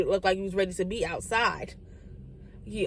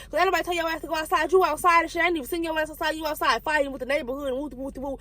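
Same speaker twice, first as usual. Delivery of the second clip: mama scolding; 5 semitones higher than usual. Retold or imitated. Mama scolding child in story.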